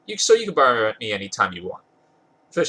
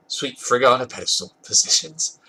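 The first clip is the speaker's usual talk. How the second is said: laughing; 2 semitones higher than usual. Real, not acted. Narrator cracks up mid-read.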